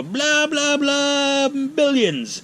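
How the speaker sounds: high-pitched, monotone blah-blah delivery; mock cost quote. Officials quoting what preparation would cost, high mocking voice. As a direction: reel off a silly huge figure, high and loud. Acted exchange about costs.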